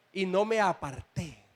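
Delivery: "aparté" stressed on its last syllable, a-par-TÉ; stress on final é. Shown as a demonstration. Preacher correcting the reading for the church, "aparté" stressed on TÉ. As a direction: land firmly on the TÉ of "aparté". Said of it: "el acento a la tilde".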